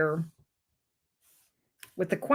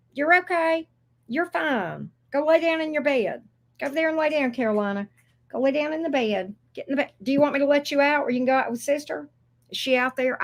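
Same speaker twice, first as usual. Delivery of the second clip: talking to the dog; 5 semitones higher than usual. Real, not acted. Scolding dog Carolina, sending to bed.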